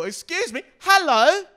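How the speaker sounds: high, loud barked hello; commanding mum shout. Retold or imitated. Mimicking the mum scolding the teen, high loud command. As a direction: bark it like an order. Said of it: "I thought that was so incredible".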